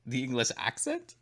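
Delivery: "accent" lifted into a question; questioning intonation. Real, not acted. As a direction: let "accent" rise as if unsure. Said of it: "Question mark?".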